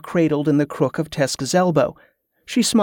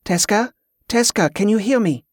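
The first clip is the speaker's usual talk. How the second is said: calling out; 6 semitones higher than usual. A narrator's reading. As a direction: try to rouse him. Yvette calling sick man.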